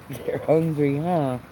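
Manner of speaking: ordinary delivery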